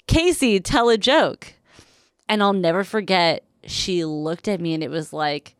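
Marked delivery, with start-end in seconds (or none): 0.1-1.5 mild higher-pitched call out; retold yell. Teller recalls yelling at a girl to be funny, mild yell. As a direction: call over to her, jokily. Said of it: "I yelled out to her".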